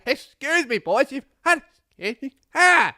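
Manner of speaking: put-on high, loud angry yell at the boys. Bus driver yelling at three schoolboys, loud and high. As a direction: bark it at them, furious. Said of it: "Real angry, just yelling".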